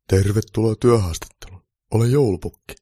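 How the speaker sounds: loud, slightly slowed jolly welcome; cheerful. A narrator's reading. Santa welcoming elf to job interview, mildly cheerful. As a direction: greet with a touch of good cheer. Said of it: "pukki sanoi iloisesti".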